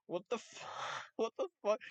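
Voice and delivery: high, laughing what the fuck; laughing disbelief. Real, not acted. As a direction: crack up mid-sentence in disbelief. Laughing at absurd video title.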